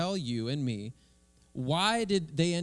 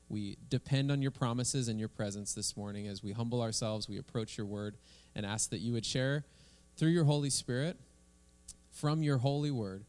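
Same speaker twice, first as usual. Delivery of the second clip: earnest pastor's prayer voice; heartfelt congregational prayer; opening prayer; 2 semitones lower than usual. Acted. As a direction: lead the church in prayer, fervent but steady. Opening prayer before the sermon.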